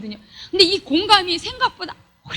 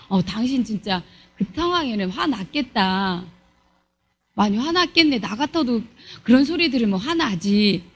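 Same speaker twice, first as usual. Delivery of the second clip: sympathetic reply; 5 semitones lower than usual. Acted. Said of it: "이거는 공감이에요".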